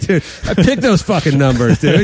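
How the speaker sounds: smug rich braggart; gravelly old tycoon. Pretend. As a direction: crow like you own the place. Lottery winner bragging.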